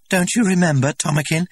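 high, loud, eager question rising; hopeful asking. A narrator's reading. Linda pressing the director to remember, eager. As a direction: coax him to remember. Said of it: "Linda asks him".

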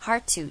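"hard to" with the d left unreleased, "har-to"; D省略. Shown as a demonstration. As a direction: drop the d of "hard" straight into to. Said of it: "D是被我省略的". (hard to不念出D)

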